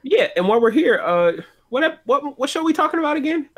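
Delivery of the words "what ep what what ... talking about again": higher, laughing question. Real, not acted. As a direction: ask while laughing.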